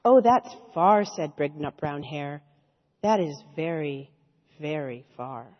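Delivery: softening sleepy storybook voice; bedtime story reading. Acted. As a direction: wind down toward sleep. Sleepy winding-down story passage.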